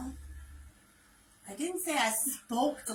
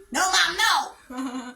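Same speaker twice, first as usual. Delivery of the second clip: loud, slow whiny protest at mom; a child begging Mom to stop; drawn-out whiny "no, Mom, no!"; mock protest; 6 semitones higher, 7 dB louder, much slower than usual.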